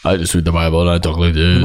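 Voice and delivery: low, mock-preachy intensity; a hint of a solemn preacher; intense ex-pastor. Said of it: "that he talks like this".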